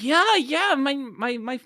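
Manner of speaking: American accent imitation. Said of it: "I don't know what's happening, this accent".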